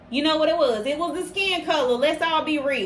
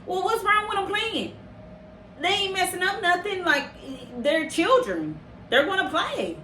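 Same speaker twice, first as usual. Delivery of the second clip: lightly higher, easygoing officer voice; imitating the officer; 4 semitones higher than usual. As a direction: mimic the calm officer shrugging it off. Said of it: "she said it just like that".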